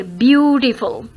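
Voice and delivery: "beautiful" stressed on a long "beau"; first-syllable stress. Shown as a demonstration. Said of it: "It needs stress here". ("beautiful" में "beau" पर ज़ोर)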